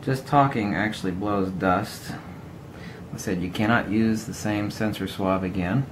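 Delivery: talking out of the side of the mouth; out of mouth corner. Real, not acted. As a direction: lips barely open, words pushed sideways. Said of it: "I'm gonna talk out of the corner of my mouth".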